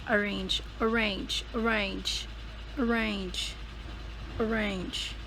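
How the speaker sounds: "arrange" with a clearly sounded R; R pronounced. Shown as a demonstration. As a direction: say "arrange" slowly, the R not silent. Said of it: "you're gonna have to say the R".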